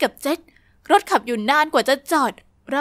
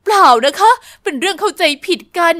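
flustered denial; 2 semitones higher, 6 dB louder than usual. Acted. Woman hurriedly denies.

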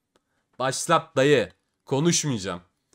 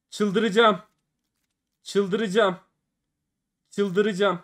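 going crazy; 6 semitones higher, much slower than usual. Real, not acted. Losing streak, repeated cry.

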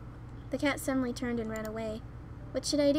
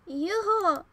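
high, loud name call; 7 semitones higher, 6 dB louder than usual. Acted. Narrator calling Yunho who hasn't heard, loud call. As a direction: call to get his attention.

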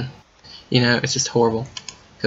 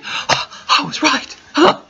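awed whisper; 14 semitones higher, much slower than usual. Real, not acted. Finds the way home.

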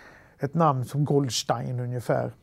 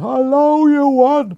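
long, high call in broad Halland Swedish; shouted in Halland dialect; 11 semitones higher, 11 dB louder, much slower than usual. Retold or imitated. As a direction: yell the greeting across the room in a thick Halland accent. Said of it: "och så skriker han". (utdraget, högt rop på bred halländska)

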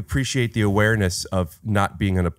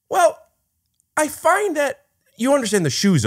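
high mock voice. Pitched-up mock voice aside.

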